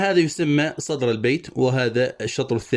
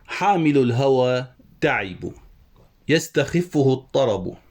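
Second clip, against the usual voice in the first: slow, measured recital of the verse; poem recitation; slower than usual. Shown as a demonstration. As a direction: recite the line slowly like a poem. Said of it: "قال أبو نواس". (إلقاء شعري بطيء)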